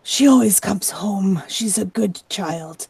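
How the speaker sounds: subdued distress, slowing and softening; worried mother. Acted. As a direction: sink into slow, pained reassurance of yourself. Mother defends her missing daughter.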